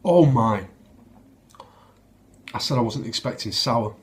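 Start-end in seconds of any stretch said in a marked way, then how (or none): 0.0-0.7 surprised. Real, not acted. First sip of sour beer.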